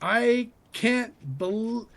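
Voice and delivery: high, slow, hammed-up wailing; fake-cry like a soap opera; hammed-up sob of disbelief; mock wail. Mock crying about show length.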